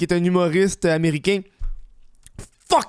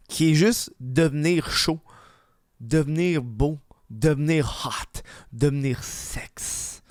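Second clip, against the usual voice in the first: slow sultry; slower than usual. Pretend. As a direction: drawl it out, more seductive each word. Building seductive list.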